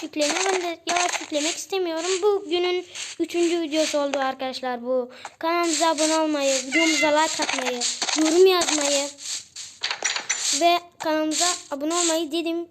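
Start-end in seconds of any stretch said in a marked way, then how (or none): 5.4-12.3 rally the viewers to subscribe; upbeat kid-youtuber sign-off; outro plea. Acted.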